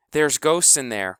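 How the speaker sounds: put-on a touch of a scared child crying out; little sister half-crying in fear; lightly voiced scared girl; frightened cry. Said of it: "cried Honey".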